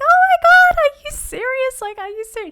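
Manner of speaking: shrill, very high screaming at full volume. Retelling a nurse's phone call with the pregnancy news: retelling own scream.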